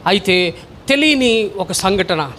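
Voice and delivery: slow suspense. Shown as a demonstration. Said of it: "repeated for weight".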